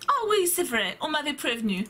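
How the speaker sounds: a touch of mock English-German accent; teacher's put-on accent. Teacher answering the pupil, mild English-German accent. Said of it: "mon mélange d'anglais et d'allemand".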